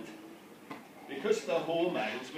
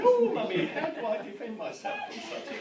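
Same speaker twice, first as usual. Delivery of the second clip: put-on much higher, louder girlish squeal on "Oh, Mummy"; mock daughter's voice; 13 semitones higher, 6 dB louder than usual. Father mimics bride asking mum about wedding night, high squeaky voice. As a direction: play the naive bride, squeaky and wide-eyed. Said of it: "And Charlotte said".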